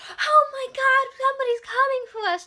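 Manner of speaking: high, loud, thrilled cry of relief; elated. Retold or imitated. Mocking the characters' overjoyed cry at the engine, high and loud. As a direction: shout it like rescue has finally come.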